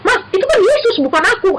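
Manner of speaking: put-on high, tearful little girl's protest; crying child. Daughter in tears protesting to her mother, high tearful voice. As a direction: plead like a crying child who won't be compared to Jesus. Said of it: "dia nangis".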